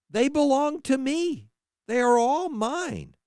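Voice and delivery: impassioned, rising divine voice, pleading and stern; God rebuking his people. Acted. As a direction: speak as God, swelling with passion at his own.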